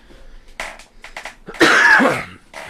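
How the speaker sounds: loud rough cough into the mic; coughing mid-podcast from the coffee; real cough. Real, not acted. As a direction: cough hard, clearing the throat. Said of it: "Sorry about that".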